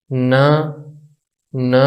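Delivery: न as "nuh", level and unaccented; neutral tone demo. Shown as a demonstration. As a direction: model न with a schwa vowel. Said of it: "इनको बोलने का तरीका".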